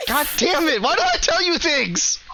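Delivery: playfully furious outburst; mock outrage.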